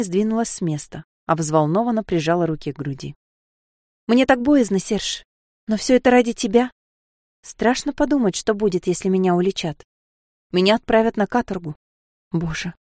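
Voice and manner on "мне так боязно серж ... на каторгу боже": Sofia, frightened. Acted.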